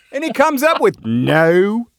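high, amused, half-laughing; laughing retelling. Real, not acted. Host laughs retelling his own prank to his co-host. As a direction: tell the joke back through amusement.

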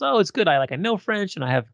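chatty mock version of the actress; imitating the actress. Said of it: "And she goes".

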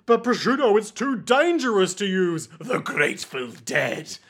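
mock alarm. Pesci warns Prosciutto about the Grateful Dead, mock alarm. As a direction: warn with hammed-up alarm.

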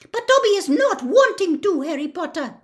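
high, loud squeaky elf; Dobby talking normally. Acted. Dobby reassures Harry after whispering, normal elf squeak. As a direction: back to full squeaky elf voice. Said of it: "talking normally again".

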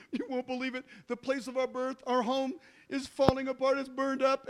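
high-pitched, mildly panicked; imitating weeping kids on the phone; mock desperate kids. Kids calling parents in Europe, lightly mock desperate. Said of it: "a desperate call from your kids, and they're weeping".

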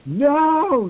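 high, hammed-up cry of no; mock yell. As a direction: wail it up high without real volume. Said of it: "yielded everyone".

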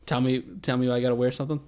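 put-on quick, light British accent as a pop star; a hint of a British pop star, fast and fussy; British pop-star impression. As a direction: rattle it off in a mock British accent. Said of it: "I'm doing my pop star, which is in turn a British accent".

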